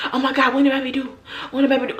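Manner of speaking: fast, silly teasing voice; goofy teasing. Retold or imitated. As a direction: clown around teasing her. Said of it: "I was acting so retarded".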